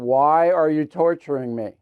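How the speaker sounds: lightly voiced put-upon dog, slow with a laugh; a mild hint of a whining pet, half laughing; playful dog voice for the Christmas dog; voicing the dog. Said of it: "The Christmas dog is going".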